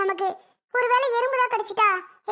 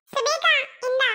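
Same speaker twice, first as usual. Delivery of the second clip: high-pitched little brother voice; 6 semitones higher, slower than usual. Acted. Little brother handing his sister a toy, high boyish voice.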